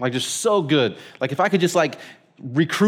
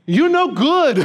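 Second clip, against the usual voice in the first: much higher, louder, laughing; laughing put-down; 11 semitones higher, 5 dB louder, slower than usual. Retold or imitated. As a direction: deliver the insult gleefully. Herbie's blunt verdict.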